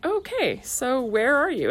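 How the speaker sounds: high, drawn-out "okay, so where are you"; calling out high for a hiding kid; singsong hide-and-seek call; mock high call. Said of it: "And you're like".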